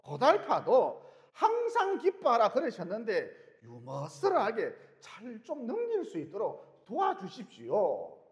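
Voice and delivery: slow heartfelt pleading; earnest slow prayer. Retold or imitated. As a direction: plead slowly and sincerely.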